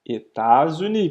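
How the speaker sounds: États-Unis with the S linked to the U as a Z sound, slowly; French États-Unis. Shown as a demonstration. Teacher showing students the liaison, États-Unis with a Z sound. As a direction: link it: eta-zuni, S sounding as Z. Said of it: "esse Szinho aqui eu ligo no U e faço um som de Z".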